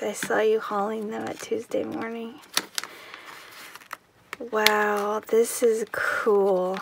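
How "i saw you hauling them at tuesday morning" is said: quick unvoiced whisper; soft, fast confiding whisper. Real, not acted. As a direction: let her in on a little secret. Confiding to the sender.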